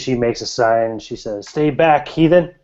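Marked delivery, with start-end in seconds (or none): 1.5-2.5 higher-pitched crone's warning; fearful warning. Acted. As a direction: ward off a stranger in a raised voice. Crone warns off a stranger.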